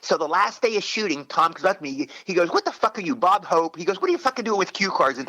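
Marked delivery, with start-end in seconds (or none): 2.5-3.8 mock chewing out. Co-star chewing out an actor on the last shooting day, mock scolding. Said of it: "he's chewing me out". 4.0-5.2 higher-pitched, tongue-in-cheek telling-off; mock chewing out. Older-brother co-star scolding an actor over cue cards, tongue in cheek. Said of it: "he's chewing me out".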